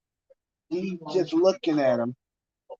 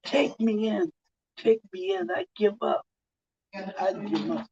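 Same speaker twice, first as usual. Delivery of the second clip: higher, desperate repeated pleas; panicked begging; 6 semitones higher than usual. Retold or imitated. Terrified man begging the vigilante: higher, desperate pleading. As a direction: beg to be taken in, voice jumping up. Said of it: "He says".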